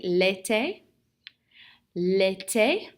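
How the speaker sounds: l'été said distinctly, rising at the end; model pronunciation. Shown as a demonstration. French teacher has the class repeat, l'été modelled with a rise. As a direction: model l'été for learners to echo, end lifted. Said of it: "Répétez, s'il vous plaît".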